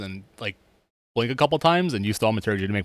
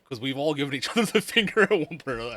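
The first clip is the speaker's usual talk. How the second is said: lightly voiced elf; a touch of an elf voice; 6 semitones higher, faster than usual. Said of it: "his elf voice".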